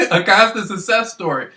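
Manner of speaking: saying it through a laugh. Real, not acted. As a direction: chuckle while boasting. Laughs mid-phrase, boasting.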